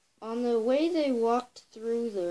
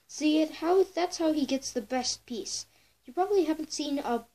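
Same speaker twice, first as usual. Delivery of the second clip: higher, pushy fox voice; persuasive fox; 6 semitones higher than usual. Acted. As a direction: talk him round, a touch faster. Sly fox persuades chipmunk.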